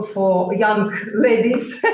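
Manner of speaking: slow, laughing through the words; amused, slow laughing aside. Real, not acted. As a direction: chuckle while saying it. Laughs at own phrase.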